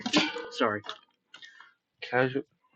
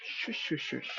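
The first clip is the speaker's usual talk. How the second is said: whispered shush, unvoiced; hushed shushing; 3 semitones higher, 9 dB quieter, slower than usual. Real, not acted. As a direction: hiss shush shush softly. Hushing family while streaming.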